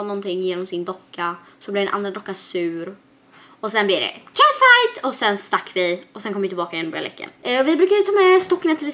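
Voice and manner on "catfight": far higher and louder, drawn out; dramatic catfight. Acted. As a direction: spit out the word like a drama queen. Dolls quarrel retold.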